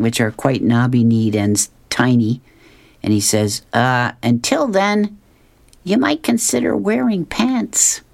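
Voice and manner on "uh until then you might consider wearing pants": a hint of Dagwood squeaking out advice; teasing line pitched high and slow; high, slow cheeky jab. Dagwood to the mailman, pitched high in teasing.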